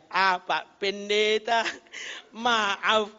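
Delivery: slow, halting mock apology; imitated sheepish apology. Driver red-faced before the pastor, sheepishly apologising. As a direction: draw it out, embarrassed. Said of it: "Sambil berkata dia".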